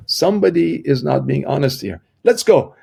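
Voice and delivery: mock angry shopkeeper accusing the employee. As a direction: call him out, then order him along. Boss accuses him of stealing.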